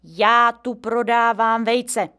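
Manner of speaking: blurted out firmly and slowly; determined old man. A narrator's reading. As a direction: blurt it with resolve. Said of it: "vyjelo z dědy Edy odhodlaně".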